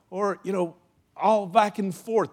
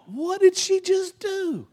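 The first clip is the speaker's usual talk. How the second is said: stunned disbelief; 14 semitones higher, 4 dB louder, slower than usual. Retold or imitated. Stunned after sweet lady's rebuke.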